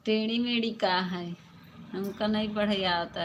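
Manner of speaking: loud, exasperated scolding; mock scolding. Real, not acted. Streamer telling a viewer off over an unreadable comment, loud scolding. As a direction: scold loudly, with rising exasperation.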